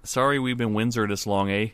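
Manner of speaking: put-on playful Canadian accent; mock Canadian. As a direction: apologize like a caricature Canadian. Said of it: "That was a good one".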